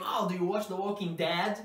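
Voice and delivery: "Dead" mispronounced as dad, mock question; imitating wrong dead. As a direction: mimic learners saying walking "Dead" like dad. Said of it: "Sometimes I hear people saying".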